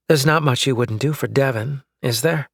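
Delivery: pointed, accusing question; wife needling husband about his partner, accusing; accusatory. Acted. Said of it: "sounding pretty accusatory".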